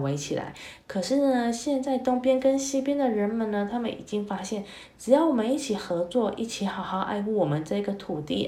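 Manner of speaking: put-on lively, expressive story voice for kids; storytelling to children. A narrator's reading. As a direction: read it like a bedtime tale for little ones.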